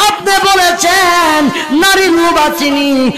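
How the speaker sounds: melodic sermon chant swelling into high cries; impassioned waz preaching. Acted. Nephew refusing his uncle's offers, in impassioned preaching chant. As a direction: preach it as a pleading chant with stretched endings.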